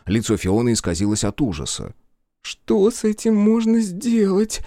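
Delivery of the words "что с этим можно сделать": high, slow frightened babble; babbling in fear. Acted. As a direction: stammer it out, terrified. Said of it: "пролепетала она".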